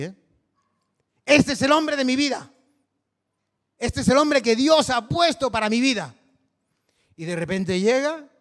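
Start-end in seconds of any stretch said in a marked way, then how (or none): 1.2-6.1 high, loud, gushing mock quote of a smitten believer; imitating an infatuated believer. Preacher mimics a smitten churchgoer, loud and high. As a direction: proclaim him the man of your life, overjoyed. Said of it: "Esto lo he escuchado así".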